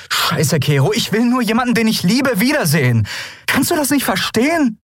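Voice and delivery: high, fast, pleading outburst; emotional plea. A narrator's reading. Endriel pleading with Kero, emotional. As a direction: beg him to understand.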